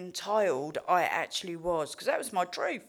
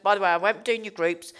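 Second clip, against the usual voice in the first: loud, fast, entitled orders; bratty demands; 5 dB louder than usual. Retold or imitated. To rehab staff on arrival, loud bratty demands. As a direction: rattle off demands like a brat. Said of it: "I was a fucking nightmare".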